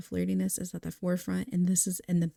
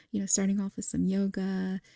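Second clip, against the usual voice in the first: ordinary talk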